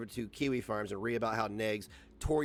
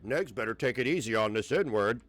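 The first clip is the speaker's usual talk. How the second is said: mocking voice; 4 semitones lower than usual. Mocking his critics' words.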